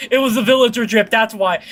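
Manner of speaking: laughing. Real, not acted. Laughing about the skin.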